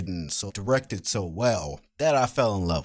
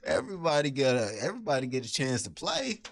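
imitating a witness; 5 semitones higher, faster than usual. Retelling witness line.

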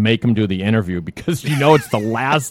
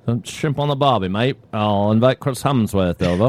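mock Australian accent. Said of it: "I can't do Australian".

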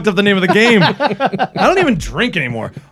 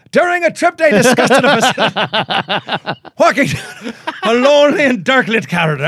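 bad Irish accent, higher, laughing through it; terrible Irish accent; 6 semitones higher than usual. Host reads a ghost story in a bad Irish accent. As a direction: read the article in a hammed-up Irish lilt. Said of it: "That's a terrible Irish accent".

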